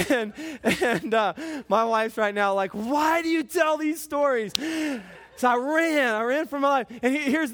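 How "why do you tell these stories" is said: higher-pitched mock complaint; lightly acted exasperation; exasperated wife. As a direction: protest like an embarrassed spouse. Voices his wife's imagined complaint.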